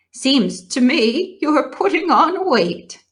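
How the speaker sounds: a hint of a wry old ewe; old sheep. A narrator's reading. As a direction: tease the pig dryly.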